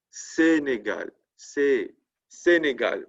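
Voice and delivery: Sénégal slowly, each é crisp; slow French. Shown as a demonstration. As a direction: model c'est Sénégal syllable by syllable. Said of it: "that's the aigu".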